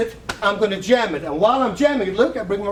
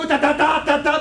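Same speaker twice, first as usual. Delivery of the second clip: wrong choppy rhythm; 6 semitones higher than usual. Shown as a demonstration. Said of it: "Don't go".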